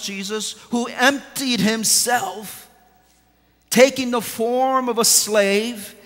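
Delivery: solemn preached scripture; scripture read from the pulpit. Acted. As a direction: weigh every word of the verse.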